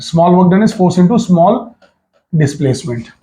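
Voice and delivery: slow dictation. Shown as a demonstration. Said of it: "so listen very carefully".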